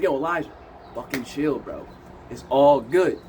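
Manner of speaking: low, easygoing reassurance with pauses; calming. Retold or imitated. Clarence calms Elijah down, soothing.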